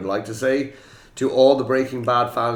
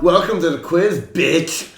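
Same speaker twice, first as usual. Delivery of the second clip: Jesse Pinkman catchphrase; 8 semitones higher, 7 dB louder, slower than usual. Pretend. Host shouts Jesse catchphrase.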